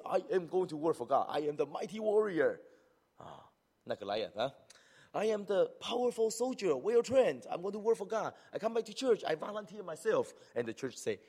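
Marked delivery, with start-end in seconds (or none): 0.1-2.6 proud, boastful volunteer; mock eager warrior. 5.1-10.3 high, loud proud boast; boastful eager volunteer. Retold or imitated.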